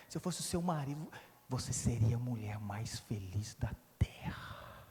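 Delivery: the devil's Don Juan whispering to the wife; seductive murmur. Retold or imitated. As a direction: purr it like a smooth seducer. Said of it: "o Dom Juan miserável do inferno".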